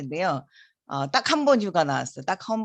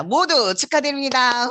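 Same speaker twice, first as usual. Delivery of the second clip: louder, much higher, ending in a whoop; excited congratulations; 8 semitones higher, 5 dB louder than usual. Real, not acted. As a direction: celebrate the whole crowd with a cheer. Congratulates everyone, then cheers. (환호하며 높고 크게 외치는 축하)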